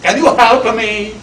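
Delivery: soft, humble plea to the queen; hushed, lightly voiced asking; quiet plea. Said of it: "and he said".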